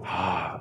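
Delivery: soft, breathy gasp of amazement; mimed breath of awe; awed breath. Pretend. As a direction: let out a hushed, wonderstruck "ah".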